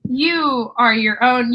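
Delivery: ordinary talk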